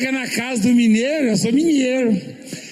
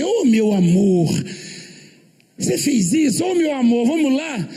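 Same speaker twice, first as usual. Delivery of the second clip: tender husband; 4 semitones higher than usual. Retold or imitated. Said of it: "tratava a mulher assim".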